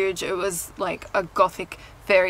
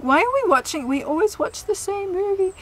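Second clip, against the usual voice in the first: high, hammed-up German complaint; bad German accent; 11 semitones higher than usual. Von's mother moans about the same movie, mock German accent. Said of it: "my attempt at a really bad German accent".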